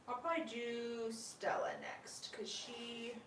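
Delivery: soft voiceless whisper. Real, not acted. Owner whispering while handling sleepy gliders. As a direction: keep it hushed for the pets.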